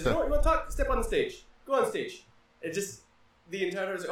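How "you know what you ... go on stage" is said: pompous Zeus. Retold or imitated. Zeus scolding whoever talks while he speaks, booming. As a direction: bellow like an offended king of gods. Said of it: "And he says".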